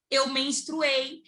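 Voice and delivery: drawn-out admission at normal volume; retold slow, reluctant reveal; slow confession. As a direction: let the confession out slowly, word by word. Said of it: "eu chorando".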